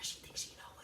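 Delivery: whispered classroom grumble; whispering. Retold or imitated. Classmate in the back complains about her, whispering. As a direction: imitate a classmate's hushed aside. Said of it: "like, whispering".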